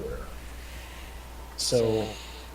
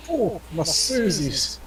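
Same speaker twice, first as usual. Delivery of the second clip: mock pained groan; 5 semitones higher, slower than usual. Dwarf kicked in the groin.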